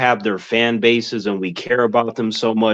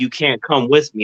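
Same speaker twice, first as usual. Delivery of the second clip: ordinary delivery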